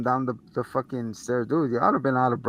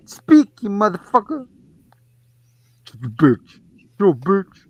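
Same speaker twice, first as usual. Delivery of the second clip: mom yelling at the doll; 7 semitones higher, 7 dB louder than usual. Retold or imitated.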